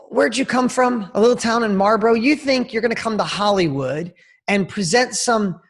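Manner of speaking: imitating a condescending Hollywood manager; scornful challenge. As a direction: put the kid in his place. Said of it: "I felt his tone".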